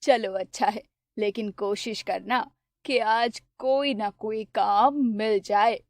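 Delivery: an anxious poor mother urging her son on; mother's voice. Acted. (थोड़ी धीमी, फ़िक्रमंद माँ की आवाज़)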